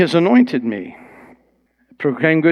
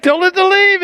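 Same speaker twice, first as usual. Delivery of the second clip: exuberant retold command; 5 dB louder than usual.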